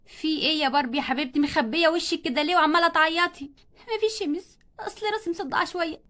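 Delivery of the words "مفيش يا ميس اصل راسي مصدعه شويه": soft, small voice hiding tears; timid murmur. Acted. Crying girl tells the teacher nothing is wrong, softly. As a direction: barely get the words out.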